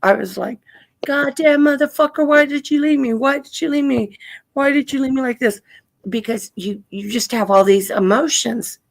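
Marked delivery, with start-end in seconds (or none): 1.1-5.6 mock angry yell. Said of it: "you're screaming".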